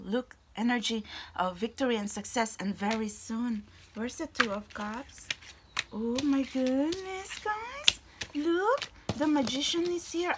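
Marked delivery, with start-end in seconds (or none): 5.9-10.3 surprised. Real, not acted. Surprised at card appearing.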